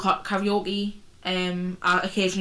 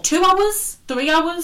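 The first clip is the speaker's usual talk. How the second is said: mock outrage; 9 semitones higher, 4 dB louder, much slower than usual. Real, not acted.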